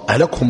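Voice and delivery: أهلكهم with u after the kaf; damma on the kaf. Shown as a demonstration. Teacher quizzes students on the meaning, أهلكهم as ahlakuhum. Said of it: "بالضم معناها إيه".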